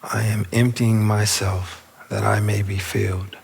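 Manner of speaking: unhurried meditation guide with long pauses; spacious, measured affirmation leading; guided meditation. Real, not acted. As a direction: guide them inward, phrase by phrase. Leads the affirmation.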